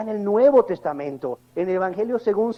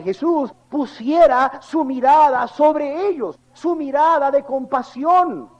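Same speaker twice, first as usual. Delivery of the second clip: louder, higher and slow sermon build; preaching at full force; 5 semitones higher, 4 dB louder than usual. Acted. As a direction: hammer it home slowly. Preacher presses the question.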